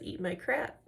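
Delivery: softly repeated in one run; retold matter-of-fact defiance. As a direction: imitate an unfazed comeback, softly, no pauses. Retold insult repeated in one breath.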